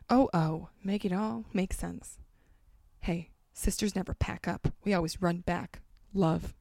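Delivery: dramatic reading of song lyrics; reading pop lyrics aloud with mock gravity; interpretive read. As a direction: read the lyrics like a heartfelt poem. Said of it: "do an interpretive read".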